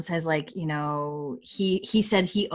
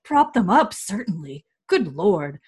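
mock offended; 4 dB louder than usual. Offended lord correcting his clerk, mildly indignant. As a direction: scoff at the idea, mildly huffy. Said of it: "looks offended and he goes".

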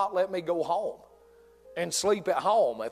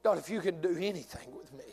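quiet surrendered prayer; 3 semitones lower, 6 dB quieter than usual. Acted. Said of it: "and say".

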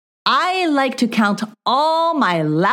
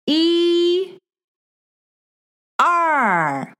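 high sing-song counting; 7 semitones higher, much slower than usual. Acted. Counting up for child learner.

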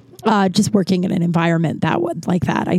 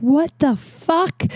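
high, slow mock shriek of shock; hammed-up horrified shriek; retold shriek; 8 semitones higher, much slower than usual. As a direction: shriek it like he just found the mess. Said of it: "like, shrieking".

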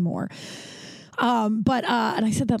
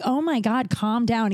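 higher-pitched imitation of an overreaction; mock exasperation; 3 semitones higher, slower than usual. Mimicking people told about boundaries, exasperated. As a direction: mimic someone brushing off a boundary.

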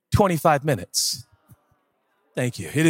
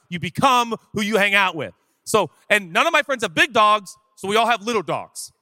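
usual speaking voice

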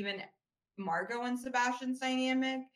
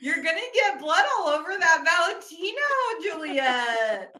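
louder, quick mock warning; teasing scold; 7 semitones higher, 8 dB louder than usual. To Juliet about her Valentino dress, mock scolding. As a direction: tease her like a fussy friend.

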